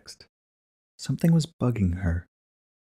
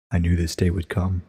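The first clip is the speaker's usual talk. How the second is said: Celestia, solemn. Acted. Celestia voiced, low and calm.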